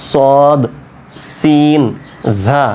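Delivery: সদ, সিন, ঝা with tongue touching the bumpy ridge; careful, separated সদ, সিন, ঝা made at the gum ridge; articulation demo. Shown as a demonstration. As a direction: say সদ, সিন, ঝা singly from the tooth roots. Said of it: "এবড়ো থেবড়ো জায়গা যেটা দাঁতের গোড়ায়".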